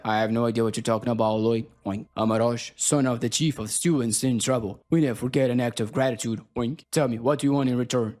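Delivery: slightly deep orc speech with matter-of-fact oinks; hint of a low, honorable orc warrior; lightly voiced orc.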